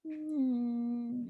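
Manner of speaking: high, soft "mm"; awkward hum. Retold or imitated. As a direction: hum uncomfortably, small and high. Mimics an awkward bystander's reaction.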